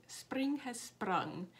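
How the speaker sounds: slow, lightly attempted Scottish accent. Quoting grandma's spring saying in a shaky-attempt Scottish accent. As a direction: have a go at a Scottish accent, drawn out slowly. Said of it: "that is my Scottish accent".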